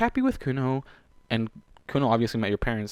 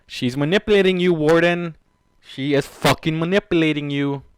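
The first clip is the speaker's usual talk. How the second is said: loud, higher-pitched, insistent outburst; forceful warning; 4 semitones higher, 8 dB louder than usual. Acted. Warning Warden that she is manipulating him, loud and insistent. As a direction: drive the warning home loudly.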